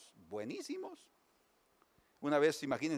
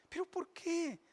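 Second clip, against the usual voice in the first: consoling wife; 12 semitones higher than usual. Acted. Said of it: "una mujer que está consolando".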